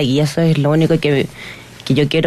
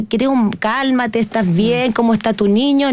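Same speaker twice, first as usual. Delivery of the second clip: slow, soothing imagined apology; calm her down gently, slowly; reassuring manager; 5 semitones higher than usual. Pretend. What the manager should have said, calm and reassuring.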